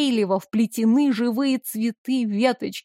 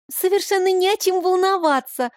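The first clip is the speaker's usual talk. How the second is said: put-on a bright child's voice, smiling, higher; smiling girl; 8 semitones higher than usual. A narrator's reading. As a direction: smile through it as the girl. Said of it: "белозубо улыбнулась Белла".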